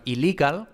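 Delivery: "illegal" with just one plain l sound; English word "illegal" with a single l. Shown as a demonstration. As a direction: say "illegal" with one short l despite the double spelling. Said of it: "solo se pronuncia una L".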